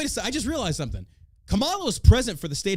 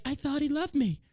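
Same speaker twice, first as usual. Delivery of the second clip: high, soft mock-naive whine, much higher; hammed-up wounded innocence; mock heartbroken bride; 10 semitones higher, 4 dB quieter than usual. Podcaster mocking the ISIS bride's excuse, high mock whine. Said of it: "And then she's like".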